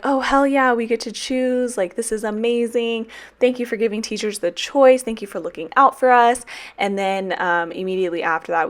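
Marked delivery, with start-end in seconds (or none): 0.0-6.5 higher, gushing mock gratitude; mock excited teachers. Teachers cheering the school's emails, mockingly excited. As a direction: ham up the delight. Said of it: "And then we're like".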